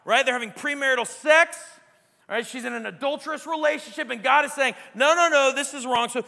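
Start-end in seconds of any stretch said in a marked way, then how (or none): 4.9-6.1 firm rebuke. Acted. Voicing God's rebuke.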